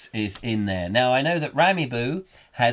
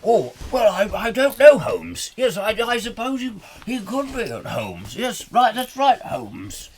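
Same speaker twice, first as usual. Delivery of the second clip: high-pitched, flustered bumbling sidekick; dim-witted Watson; 9 semitones higher than usual. Acted. Dim Watson agreeing with Holmes, high flustered bluster. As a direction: play him thick, stammering and agreeing high up. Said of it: "as thick as anything".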